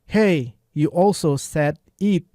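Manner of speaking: slow, drawn-out imitation of the character; imitated angry line. Teacher mimics the character to the class, slow and drawn out. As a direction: mimic the cartoon character slowly. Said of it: "Hey, hey itu hey biasa".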